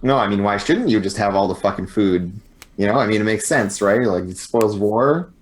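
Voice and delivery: understated sarcastic agreement; lightly sarcastic, almost conversational; subtle sarcasm. Acted. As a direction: feign reasonableness with a faint dig. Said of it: "your very subtle sarcasm".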